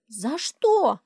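put-on high, loud child's protest; squeaky child's indignation; indignant child. A narrator's reading. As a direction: protest like a wronged little girl.

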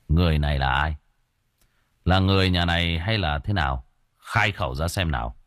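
low, measured interrogation of a spirit; low-voiced exorcist in command; stern spirit master. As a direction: question the spirit with calm authority.

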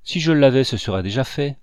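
put-on a grieving boy crying out; anguished cry. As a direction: cry it out in despair. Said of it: "s'écria l'enfant malheureux".

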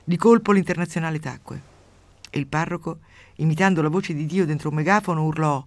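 steady storyteller's reading voice; measured radio story reading; story narration. A narrator's reading. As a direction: read the tale out with dry relish. Reads a grotesque story aloud.

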